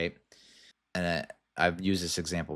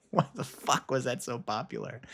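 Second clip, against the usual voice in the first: incredulous whisper; 6 semitones higher, 3 dB quieter than usual. Real, not acted. Disbelief at a viral meme.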